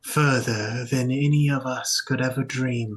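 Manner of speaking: measured, formal awe; reverent cultist. Acted. Veiled church member marvelling at the fallen family, reverent. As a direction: intone it like a devout believer. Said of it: "And they go".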